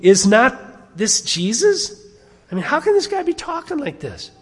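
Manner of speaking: acted-out incredulous grumbling; incredulous crowd. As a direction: question it like a scandalized local.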